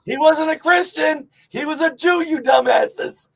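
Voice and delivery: loud exasperated rant; exasperated yell. Real, not acted. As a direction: yell it at the dumbasses. Yelling at dumbasses.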